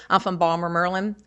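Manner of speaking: light Baltimore accent, Balmer for Baltimore; a local from Baltimore, lightly done; Baltimore dialect. Shown as a demonstration. Lightly voiced Baltimorean saying where they're from, Balmer, Merlin. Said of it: "you might hear somebody say".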